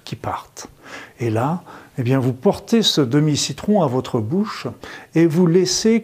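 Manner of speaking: sultry narrator. Acted. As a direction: guide them gently through the image. Guided lemon visualization.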